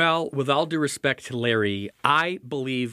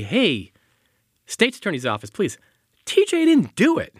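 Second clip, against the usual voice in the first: mock plea; 9 semitones higher, 4 dB louder than usual. Imagined plea to prosecutors.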